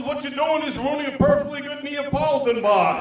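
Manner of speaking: hammed-up indignant dad; mock outrage. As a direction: play it outraged, half laughing. Outraged husband at doctor.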